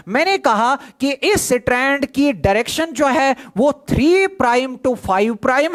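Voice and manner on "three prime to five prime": slow, spelled-out dictation pace. Shown as a demonstration. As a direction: give the definition word by word for notes. Key point repeated slowly.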